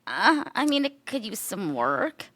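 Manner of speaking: put-on unimpressed Irish accent, starting high, then slow; drawn-out Irish-accented critique; Irish coworker. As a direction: imitate an Irish coworker giving a reluctant verdict. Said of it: "my Irish coworker, he's like".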